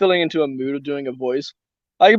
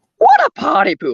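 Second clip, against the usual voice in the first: very high, bubbly, playful, excited delivery; 12 semitones higher than usual. Doing one specific line for listeners, unsure how accurate it is, in a high, excited, fun voice. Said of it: "my voice to that high, excited, fun voice".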